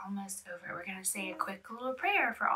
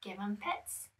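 hushed whisper; 10 dB quieter than usual. Real, not acted. Whispering to toddler.

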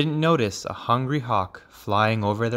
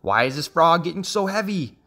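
higher, puzzled hawk voice; wondering hawk; 6 semitones higher than usual. A narrator's reading. Hawk feeling the load grow, high puzzled question. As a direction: wonder aloud, climbing in pitch. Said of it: "the hawk wondered".

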